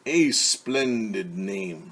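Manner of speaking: a lightly voiced wolf, slow and smooth; smooth-talk the girl while hiding hunger; sly wolf. Wolf sweet-talking Little Red on the path, slyly.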